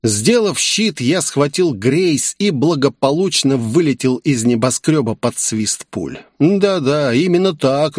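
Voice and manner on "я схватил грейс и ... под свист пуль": plain reading voice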